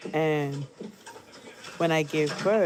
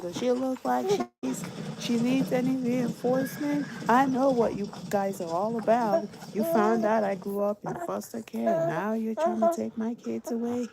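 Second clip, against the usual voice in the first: higher mock furious rant; imitating angry husband; 7 semitones higher than usual. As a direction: rant at the nurse like an enraged husband. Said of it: "He called her every name in the book".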